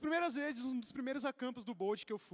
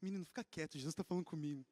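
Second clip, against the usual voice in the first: hushed wife; 7 semitones lower, 6 dB quieter, faster than usual. Retold or imitated. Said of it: "E ela, tipo".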